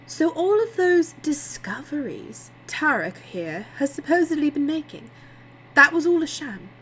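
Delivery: high, loud incredulous accusation; outraged disbelief. A narrator's reading. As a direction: confront him with mounting indignation. Layla confronts Nick about the sham.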